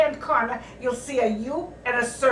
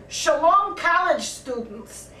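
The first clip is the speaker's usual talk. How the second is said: greeting in a Yiddish accent; 3 semitones higher, slower than usual. Shown as a demonstration. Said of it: "with a Yiddish accent".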